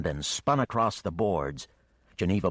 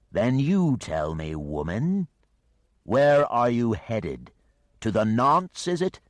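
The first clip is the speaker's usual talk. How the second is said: slow, loud, higher beast voice; questioning dragon; 5 semitones higher, 6 dB louder, slower than usual. Acted. The dragon demands Geneva's destination, slow and looming. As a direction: interrogate her like a patient monster.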